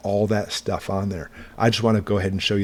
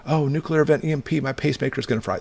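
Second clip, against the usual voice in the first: higher-pitched imitation of a worrier; mock worry; 6 semitones higher than usual. Host voicing people worried about their pacemakers, mildly mock-worried. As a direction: lightly act out someone fretting. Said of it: "If people are worried about this".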